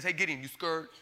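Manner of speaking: God's hushed, gentle teasing voice; soft teasing question. Retold or imitated. God teasing Gideon in his tent, softly. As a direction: lean in and ask it softly, half teasing. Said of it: "and he says".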